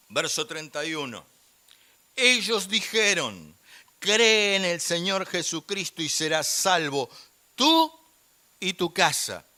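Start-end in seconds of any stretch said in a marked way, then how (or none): 2.2-9.4 slow, loud scripture declaration, pitched high; loud proclamation. Real, not acted. Preacher declares a Bible verse to the church, loud proclamation. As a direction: proclaim it slowly and forcefully to the room.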